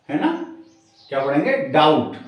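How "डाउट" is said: डाउट as "dowt"; silent B. Shown as a demonstration. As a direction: say डाउट with no B before the T. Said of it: "बी को silent छोड़ेंगे".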